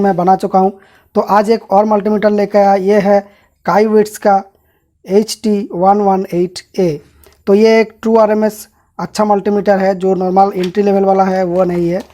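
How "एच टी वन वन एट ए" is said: reads the model name out slowly, letter by letter; slow model number. Shown as a demonstration. YouTuber to viewers, reading the model number slowly.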